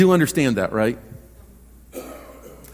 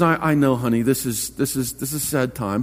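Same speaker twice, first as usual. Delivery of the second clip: lightly voiced consoling mother, lower and softer; mother gently consoling; 4 semitones lower, 4 dB quieter than usual. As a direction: soothe a crying child, low and hushed. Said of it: "her daughter begins crying".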